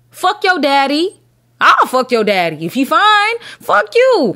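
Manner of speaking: shrieking insults up high; hammed-up high-pitched cussing; mock tirade, high and loud; high mock yell.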